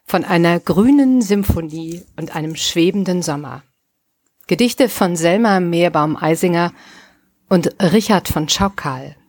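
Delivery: measured episode title announcement; Podcast-Ansage. Acted. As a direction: announce the titles and poets, with pauses between. Reads out the episode intro. (deutsche Podcast-Ansage, vorgelesen)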